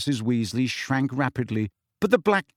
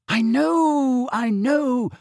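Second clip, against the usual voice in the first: high, moaning motherly voice; fretful mum, moaning it out; 11 semitones higher, 4 dB louder, much slower than usual. A narrator's reading. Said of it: "moaned Missus Weasley".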